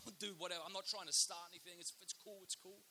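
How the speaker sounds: backing-down dude. Retold or imitated. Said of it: "he backed away and he went".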